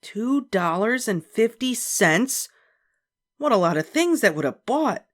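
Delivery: slow, high dismayed reflection; reflecting. A narrator's reading. Beezus thinking about the price, slow and dismayed. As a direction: linger on the price. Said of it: "Beezus reflected".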